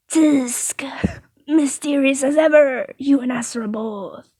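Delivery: lightly voiced baker, mock disapproval; tutting baker. Baker chides secretive customer, mildly tutting. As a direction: open with a tut, then pitch up.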